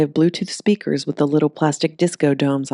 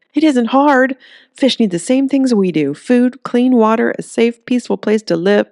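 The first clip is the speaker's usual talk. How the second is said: higher, louder exasperated scolding, slowing on the list; angry lecture; 8 semitones higher, 5 dB louder than usual. Acted. Earl to the store, lecturing on fish care: higher, louder angry scolding. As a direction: still fuming, spelling it out. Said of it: "Earl's insides boiled".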